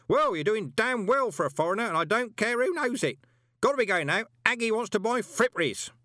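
high, loud, cheerful bellow. A narrator's reading. Parker cheerfully bellowing about his late spouses. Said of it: "bellowed cheerfully".

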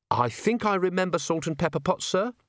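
high, eager-to-help voice; earnest subordinate. Acted. Constable recalling the tray for his commander, earnest and high.

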